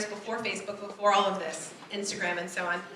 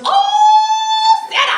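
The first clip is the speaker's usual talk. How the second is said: much higher, much louder joyful call; overjoyed uncle; 13 dB louder, much slower than usual. Retold or imitated. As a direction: call her name like a thrilled uncle. Uncle calls out on phone.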